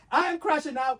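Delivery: high, loud laugh that breaks toward a cry. Real, not acted. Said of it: "I'm crashing out".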